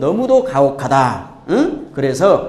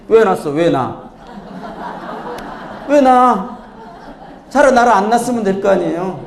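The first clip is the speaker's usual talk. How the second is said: indignant protest; 3 semitones higher than usual. Acted. Third child blaming parents for birth.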